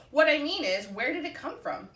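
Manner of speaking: high and eager, pushing the point; pressing question. A narrator's reading. Duck pressing Goose about the egg, eager and high. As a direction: insist on knowing, voice up.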